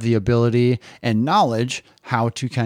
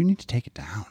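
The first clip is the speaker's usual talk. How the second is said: quiet, hushed whisper. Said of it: "of just kinda like".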